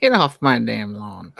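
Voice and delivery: put-on slow cranky old man voice; grizzled old-timer shooing kids; grumpy old man.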